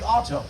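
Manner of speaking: "auto" stressed on its opening syllable; stress on first part. Shown as a demonstration. Lecturer showing the shortened name, "auto" stressed up front. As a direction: hit the start of "auto". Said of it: "stress only the first part".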